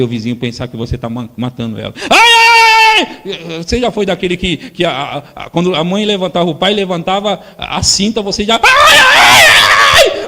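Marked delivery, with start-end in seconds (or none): 2.1-3.6 high loud fake wailing cry, then fading; hammed-up crying child; mock child wail. Child fakes being killed. 8.6-10.3 very high, loud fake screams; hammed-up child howling; mock child scream. Child screaming before spanking.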